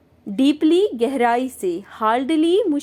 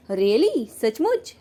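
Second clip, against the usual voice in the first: surprised really; much slower than usual. Shown as a demonstration. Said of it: "चौंकते हैं और कहते हैं सचमुच".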